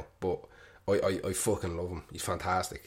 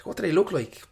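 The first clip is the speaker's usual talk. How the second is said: whispered question; 9 semitones higher, 4 dB louder than usual. Retold or imitated. Stevie voiced in comic story.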